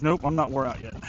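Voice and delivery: low, soft mock fish voice; voicing the fish. Angler voicing the hooked fish's stubborn reply. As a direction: put on a grumpy fish voice, lightly. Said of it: "He says".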